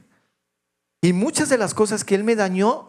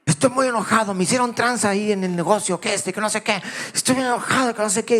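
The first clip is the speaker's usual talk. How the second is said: raised voice, mock fury of his father; imitating angry father; 4 semitones higher, faster than usual. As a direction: voice the father ranting behind the wheel.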